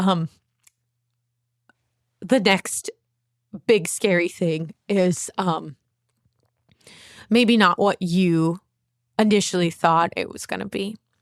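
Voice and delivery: voice close to crying, about to cry. A speaker opening up to listeners, apologizing as emotion rises: near tears. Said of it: "I'm like going to cry".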